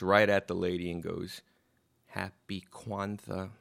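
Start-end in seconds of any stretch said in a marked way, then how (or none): 2.1-3.5 put-on soft, slow, earnest child's greeting; imitated serious little daughter. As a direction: say it quietly and slowly, in total earnest. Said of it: "She's serious".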